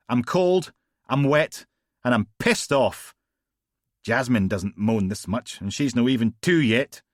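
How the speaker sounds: Logan moaning. Acted. Complaining to Steele in the cold rain, loud moaning. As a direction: whine it like he's soaked through.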